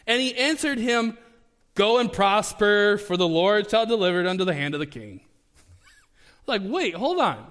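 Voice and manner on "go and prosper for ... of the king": sarcastic. Retold or imitated. Micaiah mocking the king about going to battle, sarcastic. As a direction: tell the king what he wants to hear, with a sneer. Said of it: "Because he's being sarcastic".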